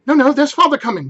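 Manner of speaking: put-on high, loud excited children; children crying out. Young Cratchits warn Martha, high and loud. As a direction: shout the alarm gleefully. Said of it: "cried the two young Cratchits".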